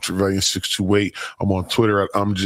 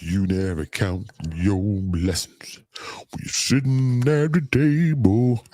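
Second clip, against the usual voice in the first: hushed aside; slower than usual. Real, not acted. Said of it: "Yeah, let me stop".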